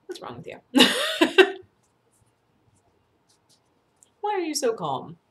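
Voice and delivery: incredulous, laughing. Retold or imitated. Imagined reaction to calm people.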